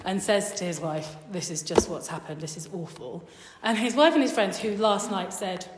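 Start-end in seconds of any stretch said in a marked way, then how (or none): 1.3-3.2 low, subdued retold lament; sad. Haman goes home to his wife, sad. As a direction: report it glumly, voice sinking. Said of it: "quite sad".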